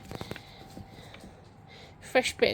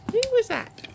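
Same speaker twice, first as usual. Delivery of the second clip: calling down from tower; 14 semitones higher, 5 dB louder than usual. Real, not acted. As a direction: call it out again from above. Repeated call.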